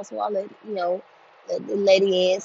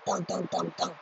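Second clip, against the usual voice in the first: soft mock thumps for footsteps; imitated stomping; 9 dB quieter than usual. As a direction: tap out her stomping feet.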